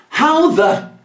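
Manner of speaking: laughing high exasperation, very slowly drawn out; laughing outrage. Real, not acted. Telling the audience about a stranger, laughing in disbelief. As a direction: pitch up and laugh through the disbelief.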